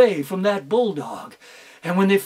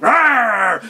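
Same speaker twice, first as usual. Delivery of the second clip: loud roar; bulldog roar; 6 dB louder than usual. Acted. Bulldog roaring from the bag, loud. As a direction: roar out of the sack.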